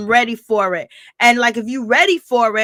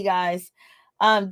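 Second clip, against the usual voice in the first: normal talking voice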